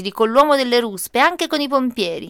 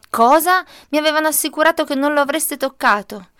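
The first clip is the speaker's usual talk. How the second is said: outraged; 5 semitones higher, 4 dB louder than usual. Acted. Mother confronts the workers.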